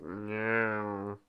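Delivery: drawn-out mock meow of protest; cat's protesting meow. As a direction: imitate a whiny cat refusing. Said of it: "I think that's just his type".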